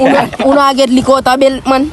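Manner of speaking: laughing. Real, not acted. Laughing while retelling.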